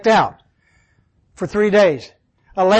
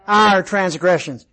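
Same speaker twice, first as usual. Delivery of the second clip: "Our" drawn out slowly; slow, deliberate stress on "Our"; 2 semitones lower than usual. Shown as a demonstration. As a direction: answer with the weight on "Our". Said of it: "It's plural".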